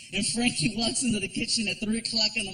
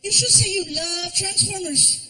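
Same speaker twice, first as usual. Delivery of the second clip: put-on much higher, sleepy child's voice; little kid voice; 9 semitones higher than usual. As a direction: play a small boy just woken up.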